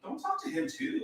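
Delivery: hushed whispered aside; whispering. Real, not acted. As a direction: whisper it so the speaker won't hear. Aside while husband calls Google.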